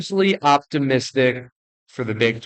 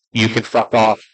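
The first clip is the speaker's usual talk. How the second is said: defiant; 7 dB louder than usual. Real, not acted. Defiant jab at critical viewers.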